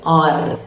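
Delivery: "R" with a rolled, trilled end; Indian rolled R. Shown as a demonstration. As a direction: trill "R" like a tractor. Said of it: "Indian people always make it".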